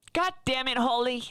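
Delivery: very high put-on girl voice. Asked by friends to do a girl voice, doing it on the spot. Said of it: "Girl voice".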